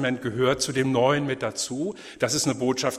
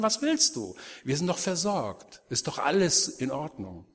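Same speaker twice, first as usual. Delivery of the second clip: defiant people of Judah; 3 dB louder than usual. Retold or imitated. The people of Jeremiah's time wave off his warnings, mildly indignant and mocking. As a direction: wave off the prophet, a touch indignant. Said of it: "Und sie sagen".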